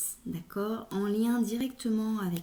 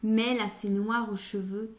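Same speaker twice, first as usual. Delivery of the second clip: lecture de poème. Acted. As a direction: lecture posée d'un poème, vers après vers. Reads a poem aloud. (récitation poétique mesurée)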